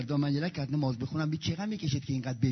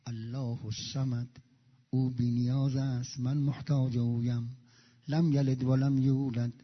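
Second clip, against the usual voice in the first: slow, measured prayer recitation; recited prayer; slower than usual. Shown as a demonstration. Preacher reciting prayer for the congregation, slow and devout. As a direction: chant each phrase unhurried and devout.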